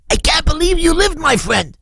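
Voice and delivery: very high, overwhelmed cry; retold amazement at high pitch; astonished. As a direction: cry out in joyful disbelief. Acting out an astonished reunion.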